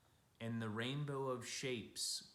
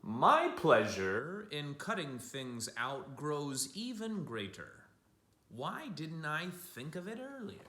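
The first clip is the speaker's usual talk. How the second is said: quoting Matisse; 3 semitones higher, 6 dB louder than usual. Retold or imitated. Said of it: "Here's a quote from Matisse".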